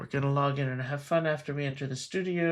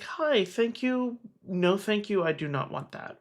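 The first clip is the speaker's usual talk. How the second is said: higher opening, settling into a firm no; clear polite refusal; 5 semitones higher than usual. Acted. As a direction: set a boundary clearly and politely. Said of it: "you verbalize it clearly".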